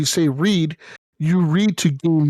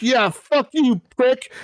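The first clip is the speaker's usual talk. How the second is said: mocking taunt; 8 semitones higher, slower than usual. Mocking the blinded prisoner.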